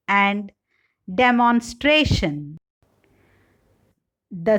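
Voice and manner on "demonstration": demonstration with STRA stressed; third-syllable stress in demonstration. Shown as a demonstration. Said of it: "Stress shift in derived words".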